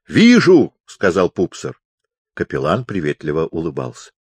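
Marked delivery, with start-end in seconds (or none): 0.1-0.7 high, loud one-word reply; raised voice. A narrator's reading. Pupser answers the hard-of-hearing chaplain, raising his voice. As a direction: shout it back for a deaf listener.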